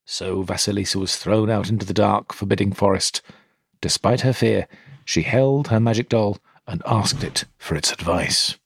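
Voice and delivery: measured storytelling read; story narration. A narrator's reading. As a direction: tell it like a bedtime folk tale.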